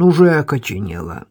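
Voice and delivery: low, puffing heavy voice. A narrator's reading. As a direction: breathe out hard between words. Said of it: "отдуваясь, проговорил он".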